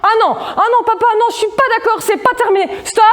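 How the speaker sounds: put-on high, pleading child's whine, half laughing; whiny little girl. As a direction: play a four-year-old begging her dad. Acting little Martine's protest.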